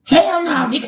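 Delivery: high-pitched mock refusal; defiant retelling. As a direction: imitate a squealed, stubborn refusal. Retold friend refuses to return clothes.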